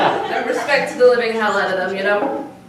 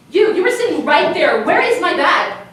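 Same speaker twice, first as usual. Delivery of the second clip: raised, higher-pitched accusation; accusing demand; 4 semitones higher, 5 dB louder than usual. Acted. Tourist confronting a man about her missing bag, accusing demand. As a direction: confront the stranger and demand an answer.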